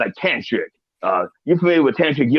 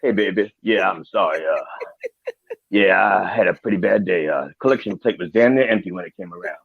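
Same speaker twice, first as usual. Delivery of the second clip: put-on sorry to baby; 5 semitones lower than usual. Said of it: "Then you go".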